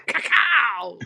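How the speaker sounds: drawn-out "ka-kow" blast; mock explosion noise. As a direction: burst it out slowly like a blast. Imitating an explosive drink.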